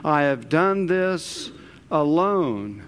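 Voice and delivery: DONE THIS drawn out, then a pause before ALONE; slow, weighty stress on DONE and ALONE; emphatic. Acted. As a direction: set ALONE apart after a deliberate pause. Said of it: "notice he emphasizes".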